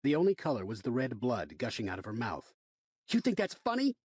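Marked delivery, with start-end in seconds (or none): 3.1-4.0 angry demand. Acted. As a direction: shove the question in his face. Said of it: "I demanded".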